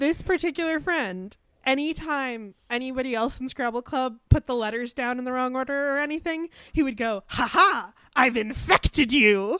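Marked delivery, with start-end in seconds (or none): 7.3-9.6 put-on slow gloating, full of glee. Imitating a Scrabble Club friend teasing others over misplaced letters, imitating gleeful gloating. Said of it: "With so much glee in his voice".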